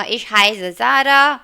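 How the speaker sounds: deliberate textbook German; slow German read. Shown as a demonstration. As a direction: read the line slowly for pupils. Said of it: "reading dialogue line".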